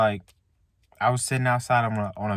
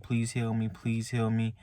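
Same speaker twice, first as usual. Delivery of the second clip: hushed, softer repeated plea; soft retold pleading; 6 dB quieter than usual. Sick on a bench, quietly begging God to heal. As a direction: quietly imitate begging to be healed. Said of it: "I was pleading to God".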